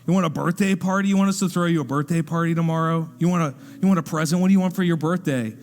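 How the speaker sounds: mildly mocking, rapid-fire questions; making fun. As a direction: tease her with piled-up questions. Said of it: "to make fun of her".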